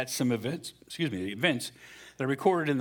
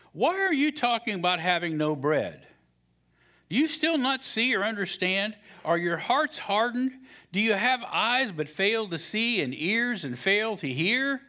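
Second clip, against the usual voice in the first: Jesus rebuking; 8 semitones higher than usual. Acted. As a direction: press each question home. Jesus voiced in scripture.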